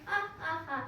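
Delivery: spaced-out "ha, ha, ha"; deliberate, separate laughing beats; mock laugh. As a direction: read out a pretend storybook laugh. Sheru laughs about his fun.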